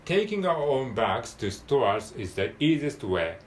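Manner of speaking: slow, careful English model reading; read-through for learners. Shown as a demonstration. Teacher reading the passage through for learners, slow and measured. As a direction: read each English word out deliberately. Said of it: "通して読んでみます".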